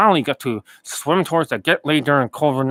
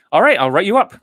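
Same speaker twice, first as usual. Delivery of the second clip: closing the deal; 5 semitones higher, 6 dB louder than usual. Retold or imitated. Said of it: "and it's like".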